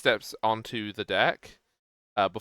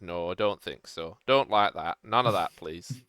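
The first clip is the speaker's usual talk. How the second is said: grumpy dwarf; 3 semitones lower than usual. Shown as a demonstration. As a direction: grumble it like a fed-up god. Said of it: "the energy of".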